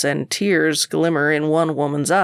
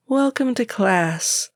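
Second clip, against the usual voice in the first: overly happy welcome; 7 semitones higher, slower than usual. Acted. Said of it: "she sounds very happy I'm here".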